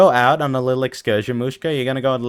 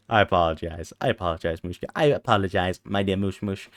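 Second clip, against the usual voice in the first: mock groveling; 6 semitones lower, 8 dB quieter than usual. Low soft groveling apology.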